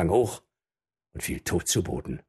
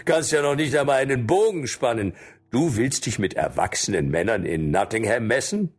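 fast, scornful hunter; a hunter taunts young Robin; mocking; 4 semitones higher than usual. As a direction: belittle the boy, quickly. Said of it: "spottete ein Jäger".

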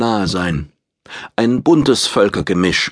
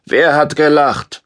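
louder, higher menacing demand; threatening voice; 7 semitones higher, 4 dB louder than usual. A narrator's reading. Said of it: "fragte mit drohender Stimme".

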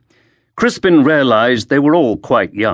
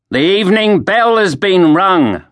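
put-on raised, stern young guard; young watchman; 9 semitones higher, 4 dB louder than usual. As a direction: call out like a night watchman. Young watchman voiced in dialogue.

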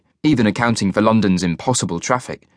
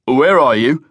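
demanding; 3 semitones higher, 4 dB louder, slower than usual. A narrator's reading. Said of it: "Carlyle demanded".

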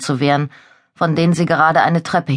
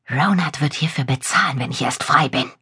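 hissing through gritted teeth; 3 dB quieter than usual. Acted. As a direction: hiss it through clenched teeth. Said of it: "zischte Cullen durch zusammengebissene Zähne".

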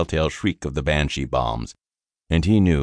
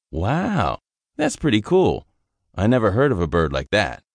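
lightly voiced young soldier, a bit higher and bright-eyed; eager young private; 6 semitones higher than usual. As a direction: chatter on like a green recruit who likes easy duty. Private impressed.

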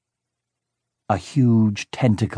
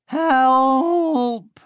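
much higher, long panicked cry; cry for help; 3 dB louder than usual. A narrator's reading. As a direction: scream as you're dragged away. Grabbed by a tentacle.

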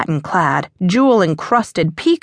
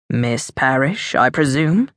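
a lower voice for the rogue viscount; dark pirate; 6 semitones lower than usual. A narrator's reading. Viscount teasing the matron, low and dangerous. Raveneau greets Catherine.

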